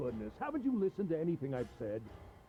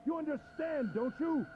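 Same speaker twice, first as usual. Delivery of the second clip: gleeful mockery; 7 semitones higher than usual. Captor mocks the captive, pitch high.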